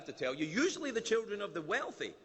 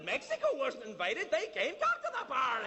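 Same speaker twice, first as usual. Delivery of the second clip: higher, laughing party call; Americans partying; 8 semitones higher than usual. Retold or imitated. Americans calling Canada down to the party, high and laughing. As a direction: wave them down to the party. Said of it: "We're like".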